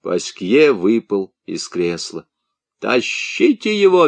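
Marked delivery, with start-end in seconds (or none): 2.8-4.1 commanding. A narrator's reading. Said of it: "велел Бутри".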